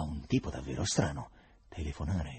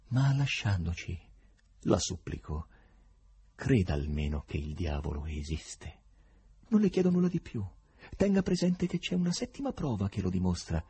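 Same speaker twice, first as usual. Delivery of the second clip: imploring. Acted. Professor imploring Berlioz to believe in the devil, pleading. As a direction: beg him to believe you. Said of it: "disse implorante".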